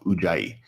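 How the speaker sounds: Ujjayi as oo-JAI-ee, stress on the middle syllable; Ujjayi said slowly. Shown as a demonstration. Yoga teacher modelling Ujjayi for students: careful oo-JAI-ee. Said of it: "you should try to say it to yourself".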